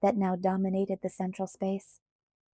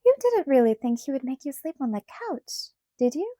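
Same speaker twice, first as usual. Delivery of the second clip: a hint of a higher, teasing girl; lightly voiced Alice; 5 semitones higher than usual. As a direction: tease her with a light higher voice.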